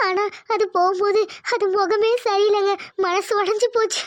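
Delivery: hurt, breaking into sobs at the end; tearful. Acted. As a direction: let the sentence give way to crying. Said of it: "சரி, அழாத". (அழுகையோடு, மனசு உடைஞ்ச குரலில்)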